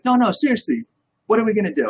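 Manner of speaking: high, insistent Italian-accented imitation; Gianmarco. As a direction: mimic an Italian friend pressing for an answer. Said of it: "He's got this awesome Italian accent".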